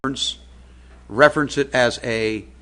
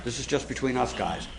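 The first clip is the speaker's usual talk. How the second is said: hushed, conspiratorial aside; whispering a secret; 7 dB quieter than usual. Pretend. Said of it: "Can I let you in on a little secret?".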